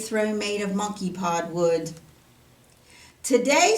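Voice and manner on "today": loud, high scolding; angry rebuke. Acted. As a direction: scold the servant. Angry king scolds servant.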